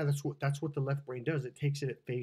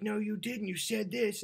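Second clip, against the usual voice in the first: higher-pitched retold objection; mock arguing; 7 semitones higher than usual. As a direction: imitate a man protesting, pitched up. Guy and woman arguing, retold.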